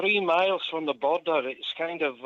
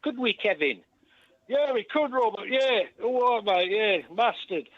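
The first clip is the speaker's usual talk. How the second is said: higher-pitched comic sidekick voice; mock double-act patter; 5 semitones higher than usual. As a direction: play both halves of a matey double act. Acts out proposed double act.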